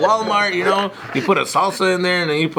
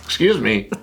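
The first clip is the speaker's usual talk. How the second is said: put-on white voice, lower; 6 semitones lower than usual. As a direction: act offended in a white voice. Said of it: "your white voice".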